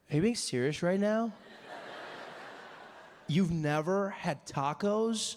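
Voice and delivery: shocked disbelief. Retold or imitated. Dave stunned Trevor never had tacos.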